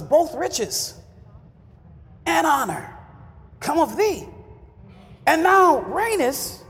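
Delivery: slow, solemn scripture reading; solemn Bible reading to the congregation. Acted. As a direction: read the verse slowly and reverently. Reads scripture.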